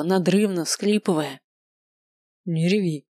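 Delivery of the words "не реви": gruff grumble. A narrator's reading. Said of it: "буркнул Маркус".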